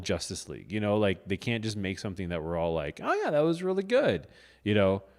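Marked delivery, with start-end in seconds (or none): 3.0-4.3 mock enthusiasm. Mock audience reaction.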